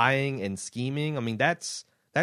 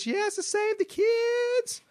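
very high, drawn-out put-on voice; Arlene; slower than usual. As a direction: wail it slowly in a piercingly high character voice. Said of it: "Requested to read in my Arlene voice".

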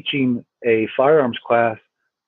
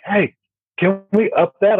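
imitating friend; 8 semitones higher than usual. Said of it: "he's like".

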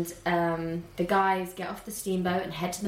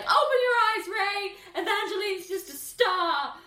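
Tiana lashing out; 11 semitones higher than usual. Retold or imitated. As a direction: throw it at him in frustration. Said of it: "she's like".

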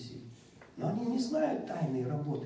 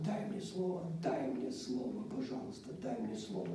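quiet pleading; 7 dB quieter than usual. Retold or imitated. Begging God in prayer.

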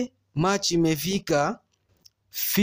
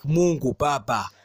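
mock panic; 7 semitones higher, faster than usual. Panicked prayer, pregnancy scare.

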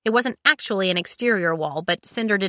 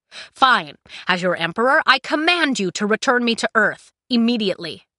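imperious command; 4 semitones higher, 4 dB louder than usual. Acted. Emperor commands Cinder in quarrel.

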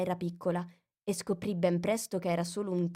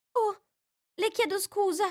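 much higher, startled apology; alarmed exclamation. A narrator's reading. Alice apologises as the mouse trembles. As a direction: catch yourself in alarm. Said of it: "esclamò Alice".

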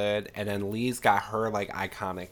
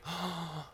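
gasp; 7 semitones higher, 11 dB quieter than usual. Retold or imitated. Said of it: "Miss Mack is just like".

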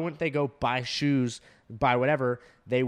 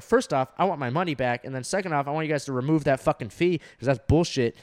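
cussing out. Retold or imitated. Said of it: "cussing this lady out".

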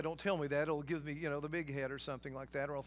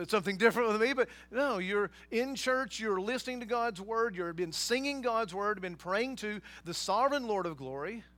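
louder, raised preaching voice; impassioned preaching; 3 semitones higher, 5 dB louder than usual. Real, not acted. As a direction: press each phrase home to the congregation. Preacher builds to full force.

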